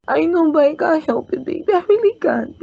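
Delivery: crying. Acted. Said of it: "not supposed to be crying".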